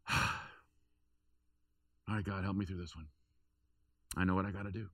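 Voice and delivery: hushed, humble plea to God after a sigh; a soft, resigned little prayer; quiet prayer. Retold or imitated. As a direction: pray it softly, like you've just given in.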